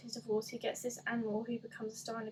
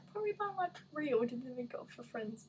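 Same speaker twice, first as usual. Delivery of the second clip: mock dumb question. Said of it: "It's gonna be like".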